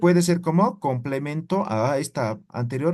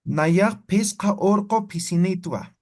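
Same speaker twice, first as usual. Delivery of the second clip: Naya pesca orco pisinitua said slowly and clearly for students; slow model sentence; 2 semitones higher, slower than usual. Shown as a demonstration. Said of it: "yo digo, tengo cinco gatos machos".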